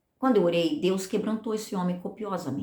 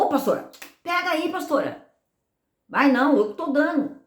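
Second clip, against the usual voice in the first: higher, louder pleading insistence; retold insistence; 7 semitones higher, 4 dB louder than usual. Man pushing his tithe on the pastor, retold insistent. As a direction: imitate someone pressing a gift on a reluctant friend.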